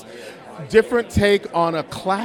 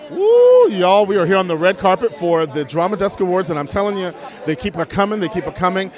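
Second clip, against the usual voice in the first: gushing red carpet chatter; 4 dB louder than usual. Acted. Host opening red carpet segment.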